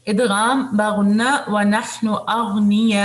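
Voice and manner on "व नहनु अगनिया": slow melodic tajweed recitation; Quran recitation. Shown as a demonstration. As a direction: chant the verse slowly and evenly.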